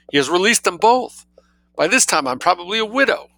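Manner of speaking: high, frantic cry of alarm; fearful intensity. A narrator's reading. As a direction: panic over the husband stuck in the bath. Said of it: "speaking with a fearful intensity".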